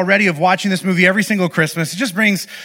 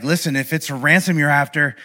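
low, gruff threat down the phone; deep gravelly menace, lower and quieter; gruff movie hero; 3 semitones lower, 4 dB quieter than usual. Retold or imitated. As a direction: growl it like an action-movie dad. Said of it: "And he says it all gruff".

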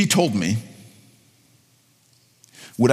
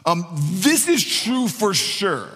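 emphatic promise; 2 semitones higher, slower than usual. Acted. Paraphrasing Jesus emphatically.

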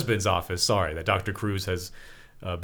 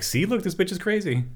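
mocking sneer; 10 semitones higher than usual. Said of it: "then been like".

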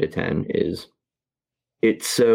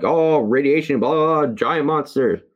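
higher-pitched mock 1950s narrator; fifties movie voice; 7 semitones higher than usual. Mocking a generic atomic-bomb movie opening in a fifties voice. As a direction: imitate an excited old monster-movie voice. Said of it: "the nineteen fifties voice".

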